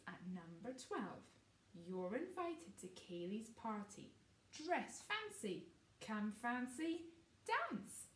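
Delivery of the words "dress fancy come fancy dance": lively invitation. Acted. Reading party invitation.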